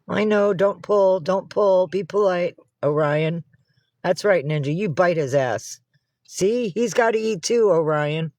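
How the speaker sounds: scolding pets. Real, not acted. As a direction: stop the cat pulling at the bowl. Scolding cats at bowl.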